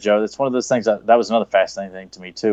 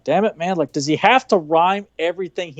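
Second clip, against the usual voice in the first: exasperated aside; 8 semitones higher than usual. Retold or imitated. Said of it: "I'm like".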